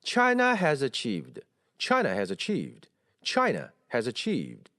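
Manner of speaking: slow model reading, "China" stressed before "has achieved"; contrasting intonation takes. Shown as a demonstration. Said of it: "把它们并在一起读一遍". (对比朗读China has achieved)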